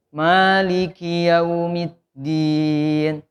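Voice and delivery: slow Maliki yaumiddin, yau pushed forward; drawn-out yaumiddin, yau at the front. Shown as a demonstration. Teacher models forward yau. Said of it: "yaunya maju ke depan".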